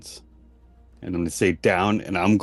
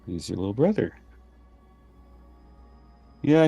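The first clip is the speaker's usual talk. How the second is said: disappointed mom voice. Acted. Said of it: "Disappointed mom voice".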